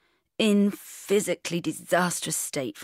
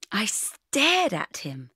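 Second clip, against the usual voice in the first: usual speaking voice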